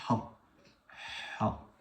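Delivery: "Ha" as a strong breathy throat h, unvoiced; Arabic Ha. Shown as a demonstration. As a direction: push out "Ha" on a constricted h, separately each time. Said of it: "pour dire". (« Ha » avec un h arabe soufflé du fond de la gorge)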